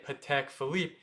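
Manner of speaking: Patek Philippe as puh-teck fuh-leep, loosely Americanized; drawn-out mispronunciation. Shown as a demonstration. Teacher shows what not to say, mispronunciation. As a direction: say Patek Philippe without the short French snap. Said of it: "you're not supposed to say".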